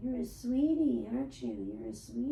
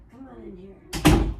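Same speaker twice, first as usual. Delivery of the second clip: louder, slow call into the room; calling the cat; 3 semitones lower, 15 dB louder, slower than usual. Real, not acted. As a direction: call her in from across the house.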